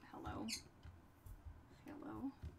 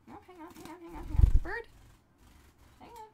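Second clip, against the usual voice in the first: hurried hang on; 9 semitones higher, 14 dB louder than usual. Real, not acted. Soothing startled bird.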